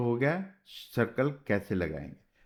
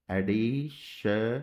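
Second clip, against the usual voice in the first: drawn out slowly; much slower than usual. Shown as a demonstration. Teacher tracing एडिशनल in shorthand, said slowly. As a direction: stretch एडिशनल out slowly, ending on a rise. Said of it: "तो इस तरीके से शन बीच में लगा दिया".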